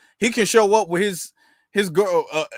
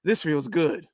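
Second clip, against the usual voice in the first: mock relieved sigh; 4 semitones lower, slower than usual. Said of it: "he took a breath when he said it".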